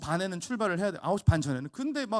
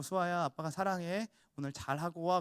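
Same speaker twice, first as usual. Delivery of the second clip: softer, gentle father's goodbye; tender goodbye; 5 dB quieter than usual. Retold or imitated. Father hugs his crying daughter at the school gate, soft and tender. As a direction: hold her close and send her off softly.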